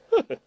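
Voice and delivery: short, mocking cold laugh; a brief scornful "heh heh"; cold chuckle. A narrator's reading. Ouyang Feng gloats over Guo Jing, with a cold chuckle. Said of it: "欧阳锋冷笑".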